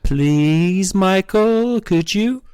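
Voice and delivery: put-on high, drawn-out girlish begging; mock pleading. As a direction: beg in an exaggerated rising whine. Acting out girl's pleading.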